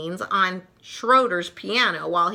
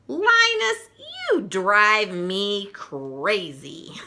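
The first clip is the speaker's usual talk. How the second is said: mock shout; much slower than usual. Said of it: "Lucy shouts at her little brother".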